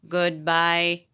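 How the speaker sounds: slow, monotone robot imitation; measured mechanical farewell, lightly done. Bionic teacher seeing off a little boy, robot voice. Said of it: "in, in a robot voice".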